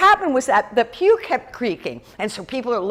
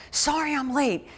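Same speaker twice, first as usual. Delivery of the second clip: soft, higher-pitched mock whisper; imitated whisper; 5 semitones higher, 5 dB quieter than usual. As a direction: lean in and quietly apologise, acting out a whisper. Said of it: "leans over and he whispers".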